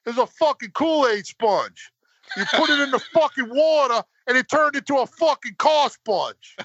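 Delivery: high, laughing through the words; can't stop laughing while telling it. Real, not acted.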